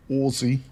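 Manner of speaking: Aussie said "ozzie", a buzzing z in the middle; Aussie voiced as "Ozzie". Shown as a demonstration. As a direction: say Aussie with a z, not an s. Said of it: "with a Z, not an S".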